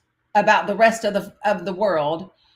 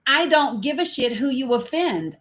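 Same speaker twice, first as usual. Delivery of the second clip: normal talking voice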